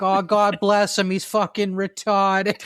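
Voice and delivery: lightly voiced Boston local; Boston accent. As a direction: imitate offhand Boston pity, drawing out the end. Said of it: "in Boston, people didn't give a shit".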